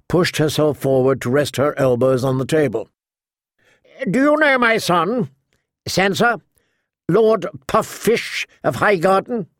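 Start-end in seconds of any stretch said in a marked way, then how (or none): 4.1-9.5 higher-pitched, probing noblewoman; tart old lady. Acted. Lady Alina asking Sansa about her son, tart higher voice. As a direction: quiz her as a mocking matriarch.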